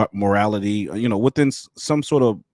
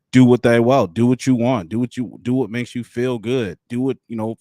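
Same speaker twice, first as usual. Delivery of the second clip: mock cult mantra; 3 semitones higher, 6 dB louder than usual. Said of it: "that was their mantra".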